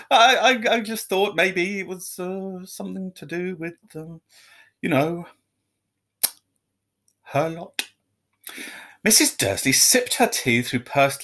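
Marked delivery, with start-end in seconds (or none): 0.1-7.9 nervous stammer. A narrator's reading. Nervous husband stammering to wife.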